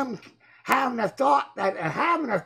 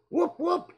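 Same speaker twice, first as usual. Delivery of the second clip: high, short double whoop; mock police whoop; 8 semitones higher, 3 dB quieter than usual. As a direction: whoop like a little siren. Mimics thought-police alarm at message.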